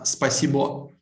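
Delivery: "спасибо" said the Russian way, with the stress on the last syllable. Shown as a demonstration. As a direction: model "спасибо" for the learner, stressing the end. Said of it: "last syllable is stressed".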